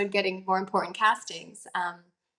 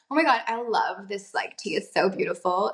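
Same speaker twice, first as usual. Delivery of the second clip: put-on American accent. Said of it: "be the American".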